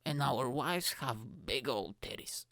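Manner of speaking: smug posh English gentleman; hammed-up posh English accent; posh southern English. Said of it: "We talk like this".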